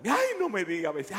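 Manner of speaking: mock surprise. Upstairs man hearing the complaint, in mild mock surprise. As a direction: act caught off guard, lightly.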